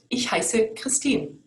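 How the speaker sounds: slow Ich heiße Christine; careful German. Shown as a demonstration. Teacher giving her own name as an example, slow and clear. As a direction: model the phrase slowly. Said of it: "so I would say".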